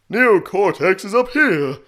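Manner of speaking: booming, high, slow villain voice; Doctor Neocortex. Shown as a demonstration. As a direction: boom it out loud and high. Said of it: "like Doctor Neocortex's voice, just a bit less boomy".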